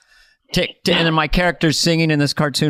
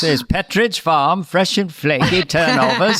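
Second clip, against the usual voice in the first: New England accent. Shown as a demonstration. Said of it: "That's the way you do it".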